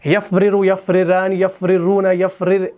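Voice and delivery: यफ़रिरु and यफ़रिरान said with the tongue catching on the double र; stumbling tongue. Shown as a demonstration. Teacher showing students the wrong, stumbling conjugation. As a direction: show how the tongue trips over र र. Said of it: "ऐसे र, र हो रहा है ना, तो ये होना नहीं चाहिए".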